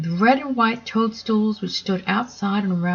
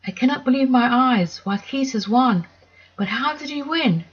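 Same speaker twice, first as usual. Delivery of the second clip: higher astonished gasp of disbelief; the giraffe can't believe it; stunned, pitched up; surprised giraffe; 5 semitones higher than usual. Acted. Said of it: "The giraffe was surprised".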